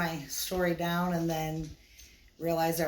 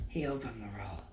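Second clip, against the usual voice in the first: whispered, much softer and lower; suspenseful whisper; 8 semitones lower, 8 dB quieter than usual. Acted. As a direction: hush it like a secret in a Russian accent. Suspense before the reveal.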